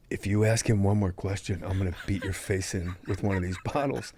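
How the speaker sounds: low, soft mock menace; hushed threat. Actor grabbing his co-star aside, hushed threat. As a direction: warn him privately, under your breath.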